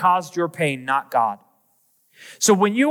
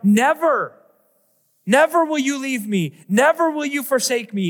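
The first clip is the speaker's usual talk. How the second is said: raised pitch, proclaiming "Never" high with conviction; proclaiming shout; 6 semitones higher than usual. Acted. Preacher leading congregation in a bold cry, raised pitch. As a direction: cry it out as a triumphant answer. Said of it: "Now we get to shout".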